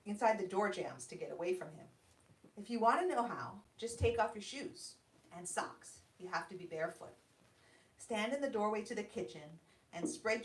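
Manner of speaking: measured storyteller's reading voice; calm, even story narration. A narrator's reading. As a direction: read the opening like an author at a book launch. Author reads her story aloud.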